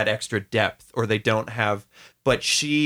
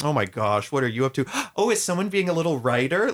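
fawning grandparent; 3 semitones higher than usual. Retold or imitated. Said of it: "that thing that a lot of parents or grandparents will do".

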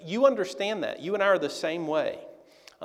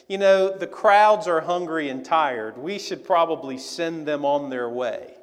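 mock clever suggestion; 7 dB louder than usual. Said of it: "they very cleverly say".

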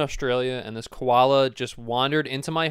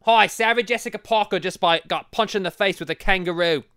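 bad Australian accent; 3 semitones higher, 3 dB louder than usual. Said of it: "My Australian accent is really bad today".

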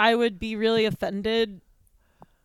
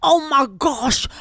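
breathy whispered redneck gasp; 3 semitones higher, 4 dB louder, slower than usual. Acted. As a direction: gasp it like a country hick. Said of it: "I can do a pretty good impression of a redneck".

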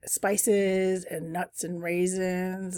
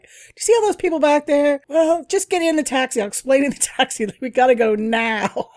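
urgent; 7 semitones higher, 8 dB louder than usual. Retold or imitated. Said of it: "I'm like".

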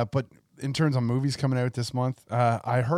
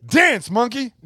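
higher, louder cartoon villain taunt; Seth MacFarlane voice; 11 semitones higher, 6 dB louder, slower than usual. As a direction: bark it like a smug cartoon boss. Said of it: "a Seth MacFarlane mindset".

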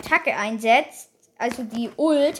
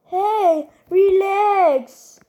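higher-pitched mock protest; Sandy imitation; 6 semitones higher, 4 dB louder, much slower than usual. Player echoing a game character's protest, high imitation. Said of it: "wie Sandy".

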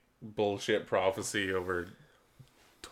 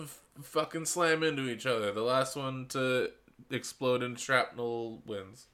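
hyped ad announcer pitch; toy commercial; 4 semitones higher, slower than usual. Pretend. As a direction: sell it like a Saturday morning ad. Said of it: "be like".

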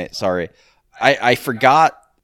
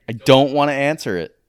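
louder refusal; 2 semitones higher, 5 dB louder than usual. Real, not acted. Refusing the question, getting louder.

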